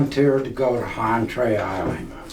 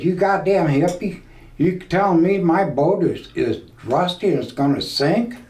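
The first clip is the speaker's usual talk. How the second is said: imitating angry captain; 6 semitones higher than usual. Captain scolds him over remark.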